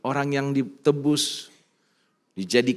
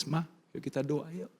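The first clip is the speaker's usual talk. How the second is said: crying husband; 7 dB quieter than usual. Retold or imitated. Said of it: "saya nangis".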